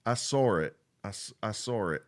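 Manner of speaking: "saw it" linked with an r, like sar it; northern intrusive r. Shown as a demonstration. Showing what jumps out at the listener, "saw it" as sar-it. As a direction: slip an r between saw and it. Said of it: "some places up north where people say it like".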